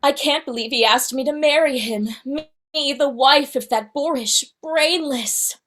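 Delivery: lightly voiced indignant princess; a hint of scornful storybook heroine; Belle voice. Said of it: "Can you do Belle?".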